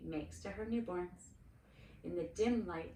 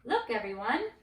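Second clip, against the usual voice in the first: louder proud call; 3 semitones higher, 8 dB louder than usual. A narrator's reading. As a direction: show everyone proudly. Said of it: "proudly carried".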